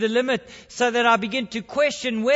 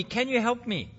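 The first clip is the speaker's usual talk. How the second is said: the plea dropped quieter; softer pleading; 4 dB quieter than usual. Acted. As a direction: repeat the plea more softly. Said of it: "The tourist pleaded".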